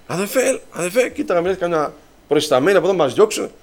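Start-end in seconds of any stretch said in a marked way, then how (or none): 0.1-1.1 soft, higher furtive call; not calling out loud. Retold or imitated. Speaker at the door wanting his companion to leave, hushed. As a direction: imitate discreetly calling a companion away. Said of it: "Δεν φωνάζω".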